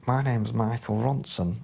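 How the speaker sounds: lightly imitated northern English accent; a hint of a northern English caller; a rock musician. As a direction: put on a mild northern accent on the phone. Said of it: "excuse the northern accent".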